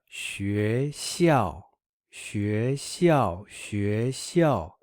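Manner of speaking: 学 rising, 校 falling; second then fourth tone. Shown as a demonstration. Teacher repeats so learners find the tone pair, rise-then-fall 学校. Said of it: "it's what go".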